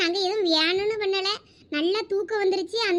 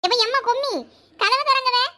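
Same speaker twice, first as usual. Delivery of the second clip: calling out; 5 semitones higher, 3 dB louder than usual. Acted. Locked in, calling mother outside.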